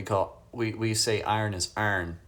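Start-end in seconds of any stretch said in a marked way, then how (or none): 1.2-2.2 "iron" squashed toward "arn"; regional pronunciation. Shown as a demonstration. Streamer showing viewers how home says it, regional pronunciation. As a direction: say the second "iron" as a local "arn". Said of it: "where I come from ... we say".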